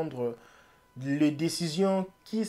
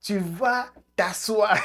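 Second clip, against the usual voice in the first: mock order; 5 semitones higher than usual. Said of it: "Eto'o crie".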